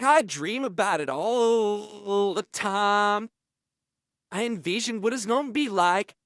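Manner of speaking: a hint of a menacing inmate savoring each word; imitating Fleece. Inmate describing his dreams.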